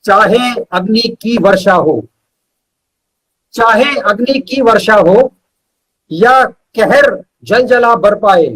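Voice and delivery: measured verse with pauses between phrases; poem recital. Acted. Poet reciting his own verse to the host, measured poetry recital. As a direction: recite each line slowly and weigh it.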